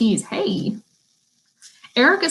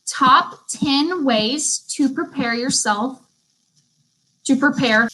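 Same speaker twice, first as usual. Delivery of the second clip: slow repeat of dictation; 3 semitones higher, slower than usual. Shown as a demonstration. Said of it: "I'm gonna repeat the title".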